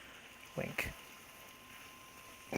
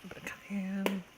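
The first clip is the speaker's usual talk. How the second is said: evil bad guy voice; 6 semitones higher, 3 dB quieter than usual. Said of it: "the evil, like, bad guy laugh that I have".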